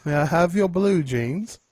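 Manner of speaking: pleading, slow beggar voice; begging. Pretend. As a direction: beg slowly for jeans. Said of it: "I don't know how to do a Russian accent".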